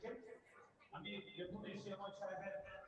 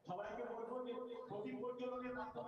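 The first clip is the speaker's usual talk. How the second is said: echoing conference audio; words ringing with echo; 3 semitones higher than usual. Real, not acted. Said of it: "কথা ইকো হচ্ছে".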